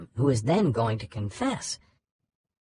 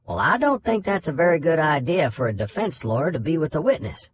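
a light southern judge voice, a bit higher; a lightly drawled Southern judge scolding; 5 semitones higher than usual. Retold or imitated. Judge on the phone scolds the defense lawyer, light southern drawl. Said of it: "impression of Dupree's southern drawl".

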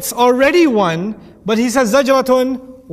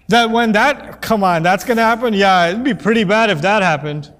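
mock dismissive quote. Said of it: "be silly with you".

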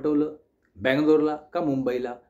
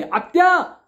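full-force yell, much higher and louder; very loud shout; 12 semitones higher, 7 dB louder, much slower than usual. Retold or imitated. Nephew yelling at his aunt on the phone, all-out shout. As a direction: bellow the name as loud as you can. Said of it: "आणि एकदम मोठ्याने".

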